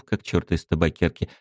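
ordinary delivery, nothing marked

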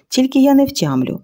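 high, hesitant head-scratching voice; puzzled guard. A narrator's reading. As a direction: sound doubtful and scratch your head. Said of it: "почухав потилицю Квасило".

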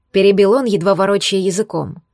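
plain reading voice

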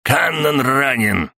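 high, drawn-out cry; alarmed shout. A narrator's reading. Murray reporting the wounded captain, shouting. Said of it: "крикнул Мюррей".

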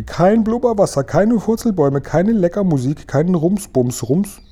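high-pitched indignant listing; high, incredulous outcry; outraged protest. A narrator's reading. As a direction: pile up complaints in a high voice. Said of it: "schrie der Guri".

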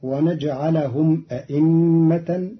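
أئمة as a-imma with a firm second glottal stop; full hamzas in أئمة. Shown as a demonstration. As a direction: articulate both hamzas in أئمة. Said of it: "بتسهيل الهمزة بين بين".

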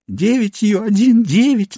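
high, slow tearful counting; sobbing. A narrator's reading. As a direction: count through tears. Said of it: "начала бедняжка, рыдая". (рыдая, высоким медленным голосом)

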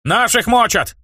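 rally them with reckless glee; eager shout. Acted. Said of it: "азартно крикнул я".

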